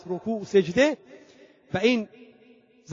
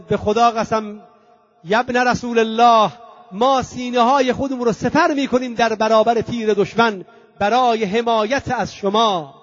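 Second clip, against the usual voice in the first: slightly raised, emphatic pledge; retold loyal outcry; 3 semitones higher, 3 dB louder than usual. Companion swearing to shield the Imam, mild cry of devotion. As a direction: proclaim the oath with a mildly lifted voice. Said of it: "مسلم ابن اوسجه فریاد زد".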